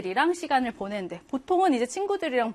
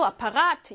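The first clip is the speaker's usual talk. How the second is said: "아파가트" with the final 가트 stressed; stress on third syllable. Shown as a demonstration. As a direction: lean on 가 in "아파가트". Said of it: "이렇게 삼 강세일 확률".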